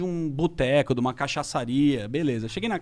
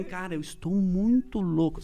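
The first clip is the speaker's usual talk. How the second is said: put-on slow slurred drunk thinking; slow, dazed, very drunk; blackout drunk; 2 semitones higher, 3 dB quieter, slower than usual. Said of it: "eu pensei assim".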